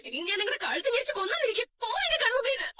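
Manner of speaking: distraught rage rising in pitch; furious, climbing outburst; angry threat. Acted. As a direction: drive the culprit away. Mother threatens negligent grandmother.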